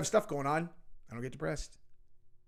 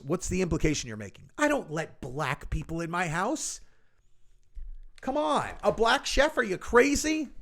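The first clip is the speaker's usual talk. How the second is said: mock out-of-touch rich lady. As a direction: scoff like a snobbish rich woman. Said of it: "That's what these people sound like to me".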